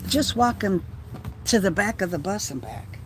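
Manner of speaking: breathless talk; out of breath. Real, not acted. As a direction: speak winded and short of air. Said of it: "I feel out of breath".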